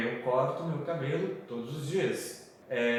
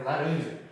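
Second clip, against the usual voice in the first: laranja with the middle RAN stressed. Shown as a demonstration. Teacher repeats the right version, RAN stressed in laranja. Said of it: "tem que ser ali no ram pra ficar certo".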